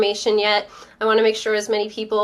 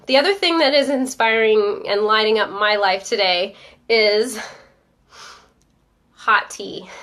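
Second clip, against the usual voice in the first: blocked nose from a cold; talking through a stuffy nose. Real, not acted. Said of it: "I sound a little stuffy".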